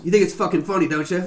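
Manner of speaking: attempted Southern accent slipping into British; muddled southern-British accent, pitched slightly up. Retelling a lady's remark outside Goodwill, muddled southern British accent. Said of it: "You did it again".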